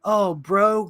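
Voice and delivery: mock the blue aliens like a stoner surfer; surfer dude. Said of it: "really just surfer dude kind of talk".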